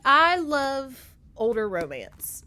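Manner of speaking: slow, high and loud gush. Real, not acted. Vlogger gushing to viewers about older romance, slow loud gush. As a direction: savour every word of it.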